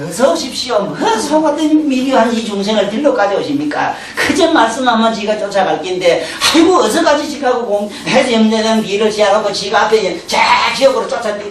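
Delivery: 2 joyful calling out to a visitor; 3 welcome death like an honoured guest, half laughing; 1 eager welcome. Retold or imitated. 염라대왕을 반기는 흉내. (4 염라대왕을 반갑게 맞이하는 들뜬 목소리)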